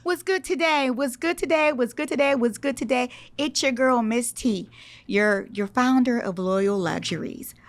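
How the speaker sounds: high, bubbly Southern twang pitch, hey y'all. Shown as a demonstration. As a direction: greet buyers like a cheery Southern host with a big twang. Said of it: "I give it a little bit more twang".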